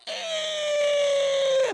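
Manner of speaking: sudden high yelp of surprise; high startled shout. Retold or imitated. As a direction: jump and squeak in fright. Startled yelp at Mola Ram.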